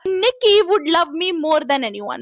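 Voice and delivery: very slow, drawn-out wish. Retold or imitated. Making a wish on the willow, spoken very slowly. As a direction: stretch every word like a solemn wish. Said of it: "मैं exact line बताती हूँ".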